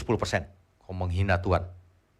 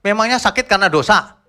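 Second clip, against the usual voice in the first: preaching loudly; 9 semitones higher, 7 dB louder than usual. Real, not acted. Rhetorical challenge to congregation.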